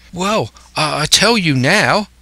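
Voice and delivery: put-on high-pitched sailor boy; eager young lad. Lad replying to Silver, as an eager boy.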